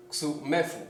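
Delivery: "xumefu" said ksu-ME-fu; stress on the E of xumefu. Shown as a demonstration. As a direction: put the weight on the second syllable of "xumefu". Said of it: "el acento es en la E".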